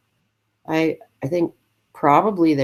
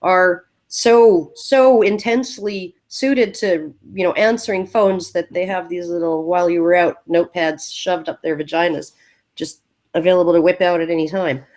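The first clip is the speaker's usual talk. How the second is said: sarcastic. Retold or imitated. Co-host spelling out the presenter's joke, sarcastic. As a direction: lightly imitate her sarcasm. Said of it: "She's being sarcastic, you know".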